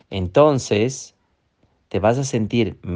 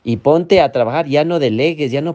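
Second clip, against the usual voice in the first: bossy inner critic; 4 semitones higher than usual. Acted. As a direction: command them like a demanding inner voice. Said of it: "la otra voz".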